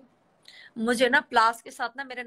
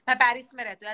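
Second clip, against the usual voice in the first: said out firmly and louder; louder demo line; 6 dB louder, faster than usual. Shown as a demonstration. Showing a friend how to say it, louder. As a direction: announce it proudly. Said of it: "ऐसे बोला कर".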